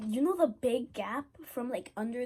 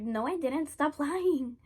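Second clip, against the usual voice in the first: louder, laughing denial; mock loud denial; 4 semitones higher, 6 dB louder, slower than usual. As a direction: snap back that she's lying. Friend denying, acted quote.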